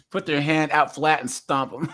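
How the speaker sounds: shouting through laughter; gleeful, laughing joke. Real, not acted. Streamer jokes and laughs.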